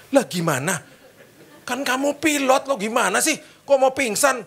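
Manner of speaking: slow, stretched out, can't believe it; the businessman, laughing in disbelief at the pilot; incredulous. Retold or imitated. Businessman reacts to fainting pilot.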